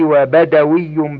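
وبدوي with no long "a", badawi; dropped alif. Shown as a demonstration. Reader lists irregular nisba forms, وبدوي without alif. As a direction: say وبدوي with short vowels, "wa-badawi". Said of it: "بحذف الألف".

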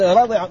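رضع said "radi'a", with an i after the dad; short i in the middle of رضع; kasra on dad. Shown as a demonstration. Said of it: "بكسر الضاد". (رضع بكسر الضاد)

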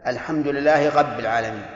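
رب said as غب, r turned to a throaty gh; lisped r demo. Shown as a demonstration. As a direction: say رب with a French-style gh for the r. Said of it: "الذي يجعل الراء غينا".

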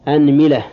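أنملة as "anmila", a first, i after mim; fatha then kasra. Shown as a demonstration. Teacher completing the fatha set, أنملة as "anmila". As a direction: say أنملة with opening a and middle i. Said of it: "هذا في الفتح".

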